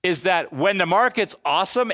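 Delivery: ordinary talk, nothing marked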